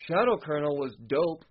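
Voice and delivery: "was" given pointed emphasis; stress on WAS. Real, not acted. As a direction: lean on the word "was". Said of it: "I gotta emphasize the word was".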